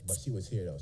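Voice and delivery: soft whispered aside; whispering. Real, not acted. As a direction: whisper it to the crowd.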